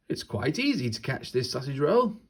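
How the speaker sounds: lightly voiced chuffed bear; a hint of a pleased bear. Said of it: "said the bear".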